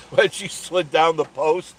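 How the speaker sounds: cracking up while telling it; laughing. Real, not acted. Laughing with a friend about the raccoon's slide.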